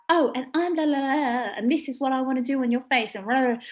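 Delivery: lightly mock the careless artist; mock airy makeup artist. Makeup artist mocking a careless colleague, airy. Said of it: "Don't be like".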